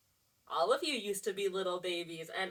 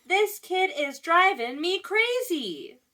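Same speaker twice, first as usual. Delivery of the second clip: slow, higher frazzled mom voice; exasperated mother; 8 semitones higher, 7 dB louder, slower than usual. Acted. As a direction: let a worn-out mother wail it playfully. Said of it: "Sometimes the mother would say".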